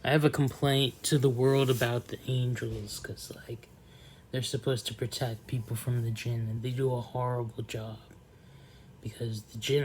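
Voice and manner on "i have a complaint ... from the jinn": whisper. Real, not acted. Confiding complaint, whispered.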